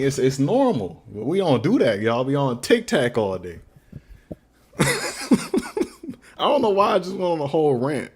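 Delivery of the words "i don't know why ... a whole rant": slow, laughing through the words; amused at himself, real laughter; laughing at his own rant while talking to stream viewers. Real, not acted.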